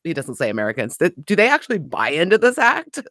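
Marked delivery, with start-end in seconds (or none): 1.2-3.0 higher-pitched incredulous question; playfully acted scepticism; mock disbelief. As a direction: scoff at the act as the cat. Voices cat mocking the fake Frenchman.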